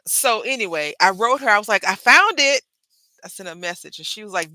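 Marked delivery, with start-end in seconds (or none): 1.9-2.6 high and loud, triumphant shout; excited announcement. Retold or imitated. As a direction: call it out like a prize. Excited reply to a friend.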